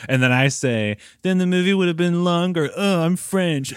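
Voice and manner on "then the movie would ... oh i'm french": high-pitched, hammed-up bad French accent; terrible French accent. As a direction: do a deliberately awful French impression. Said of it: "You do a really terrible French accent".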